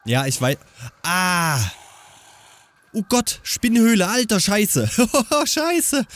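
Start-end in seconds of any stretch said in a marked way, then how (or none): 2.9-6.0 startled. Real, not acted. Sees a spider cave.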